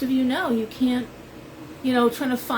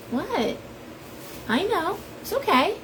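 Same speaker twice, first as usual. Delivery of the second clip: high soothing pet talk; 8 semitones higher than usual. Real, not acted. Owner soothing her pet parrot, high cooing pet talk. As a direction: coo gently at the bird to calm it.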